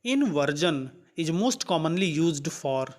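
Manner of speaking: reads the English question out word by word, very slowly; slow question reading. Acted. Teacher reading the quiz question aloud to students, slow and deliberate. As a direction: dictate it slowly so students can follow.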